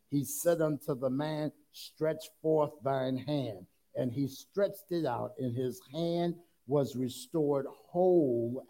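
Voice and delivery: measured, emphatic Bible reading; scripture reading. Acted. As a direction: read the verse out deliberately to the congregation. Reads scripture aloud to congregation.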